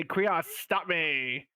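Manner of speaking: slow, drawn-out call for help at normal volume; acted yell. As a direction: stretch it out like a mock cry to a friend. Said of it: "All right, I yell".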